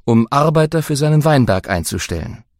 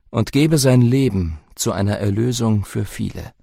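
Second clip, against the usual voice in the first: Jesus teaching. Acted. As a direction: teach with calm authority.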